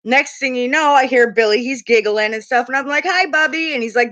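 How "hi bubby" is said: high-pitched hello to a son; retold motherly hello; affectionate greeting. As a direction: greet your kid in a higher, singsong pet-name voice.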